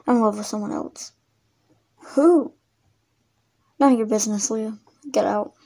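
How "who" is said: higher, louder shocked question; sharp demand. Acted. Hurt ex demanding who the new love is. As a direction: demand a name at once.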